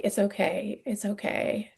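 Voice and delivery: softly imitated soothing reassurance; retold comforting. Nurses comforting an upset patient, retold in gentle reassurance. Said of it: "trying to comfort me".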